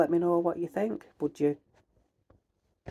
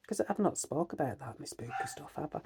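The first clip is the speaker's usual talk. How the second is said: whisper; 6 dB quieter than usual. Real, not acted. Vlogger confiding to viewers, in a whisper. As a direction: let it slip out as a secret. Aside about her spooky stuff.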